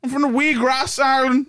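attempted Irish; mock Irish; Irish accent. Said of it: "your Irish accent".

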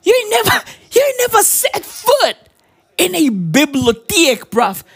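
high, shouted accusation; yelling at the audience in mock disbelief; mock outrage. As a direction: call them out with a shout. Mock-outraged opening call-out.

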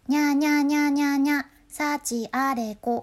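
high falsetto nya. Shown as a demonstration. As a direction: mew up high and keep it for your name. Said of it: "裏声っぽく出すのがポイント". (裏声っぽく高く)

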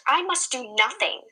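refuse, pushing back; defiant cry. Acted. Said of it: "cried Summer".

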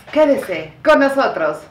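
slow, settled "Quédese con nosotros". Shown as a demonstration.

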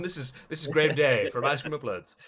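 loud, haughty star demanding special treatment; mock entitled celebrity. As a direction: play the self-important VIP, booming. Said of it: "So I'm like".

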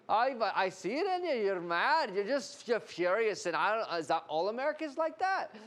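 teasing Irishman, hammed up; imitated Irish accent. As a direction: keep goading in an Irish accent. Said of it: "I was in Ireland, and the guy kept going".

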